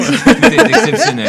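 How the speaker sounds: laughing through the words; slow, high laughing delivery. Real, not acted. Laughing while praising pastries.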